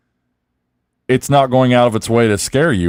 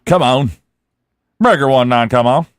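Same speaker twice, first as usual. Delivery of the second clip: jokey trucker calling on the radio; lightly voiced CB radio call. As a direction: call it out like a CB handle. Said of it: "That's the voice I was hearing it in".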